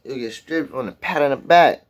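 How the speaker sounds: reciting the lyric, tripping over words; halting attempt at quoting lyrics; stumbling lyric recital. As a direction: recite the line as if tongue-tied. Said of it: "Sound like I'm stuttering and shit".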